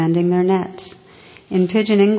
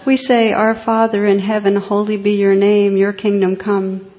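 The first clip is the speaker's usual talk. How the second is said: louder, earnest prayer recital; eager recital; 2 semitones higher, 5 dB louder than usual. Retold or imitated. Fishermen reciting the prayer to the bishop, louder and earnest. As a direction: rattle off the prayer proudly.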